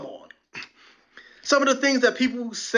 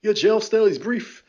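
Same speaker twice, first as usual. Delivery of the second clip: dry governor; 2 semitones higher than usual. Retold or imitated. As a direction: deliver it bone-dry. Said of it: "the governor calls and says".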